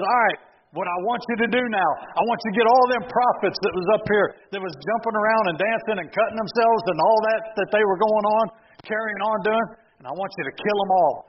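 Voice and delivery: rally the people to strike; a preacher voicing Elijah's fierce command; commanding order. Elijah commands killing the prophets.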